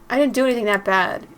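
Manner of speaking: mildly heated self-defence; defensive protest. Acted. Prankster defending the spook to angry friends, mildly defensive. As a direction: push back, a little defensive.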